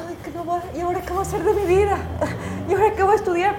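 mock-despairing cry about her future; retold tearful panic. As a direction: rush it out like a weepy teen who has lost her plan. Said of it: "Llegué a la casa llorando".

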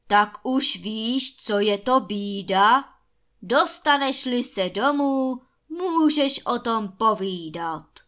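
loud roar echoing after someone; giant's bellow. A narrator's reading. Giant roars after the fleeing prince, loud bellowing. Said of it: "ale obr za ním řval".

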